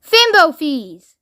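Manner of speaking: restrained mock scream, drawn out slowly; frenzied scream. A narrator's reading. Mister Wonka crying out to the loudspeaker, mock frenzied scream. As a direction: stretch the cry out high, at half force. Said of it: "in a frenzied, unearthly sort of scream".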